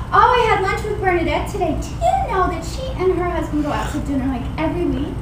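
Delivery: fast, breezy fishing hint; wife slipping in a not-so-subtle hint. Retold or imitated. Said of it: "she does this".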